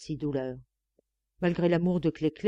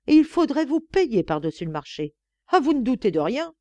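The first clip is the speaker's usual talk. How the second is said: angry tirade; 2 semitones higher, 4 dB louder than usual. Acted. Maid's angry tirade at nun.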